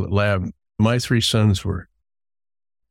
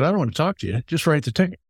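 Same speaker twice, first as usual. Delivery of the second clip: higher, exasperated retelling of a mild outburst; retold anger; 6 semitones higher, faster than usual. Telling the deputy to just write it, mock exasperated. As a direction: let the frustration lift the pitch, half-hearted. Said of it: "I was getting mad".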